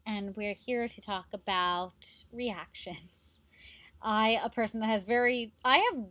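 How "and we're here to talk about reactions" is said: whisper. Pretend. Whispered intro line.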